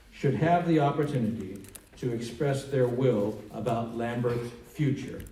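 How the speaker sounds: measured, deliberate public statement; formal read-aloud with weighted key words. Real, not acted. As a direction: read it out firmly, pausing between phrases. Reads a congressman's statement aloud.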